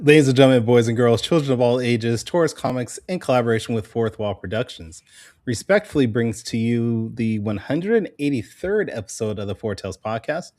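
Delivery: announcer voice. Acted. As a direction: announce it like a ringmaster. Opens the show as announcer.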